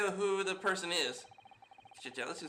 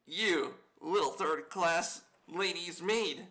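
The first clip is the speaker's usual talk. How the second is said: sneering sailor; slower than usual. Acted. Sailor mocks the lady's maid, slow and sneering. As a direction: drag out every word with contempt.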